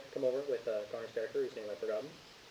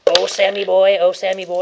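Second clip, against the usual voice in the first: sing-song, louder and higher call; teasing call; 5 semitones higher, 14 dB louder than usual. Pretend. GM teasingly calling his player over, sing-song. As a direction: coax him like a pet.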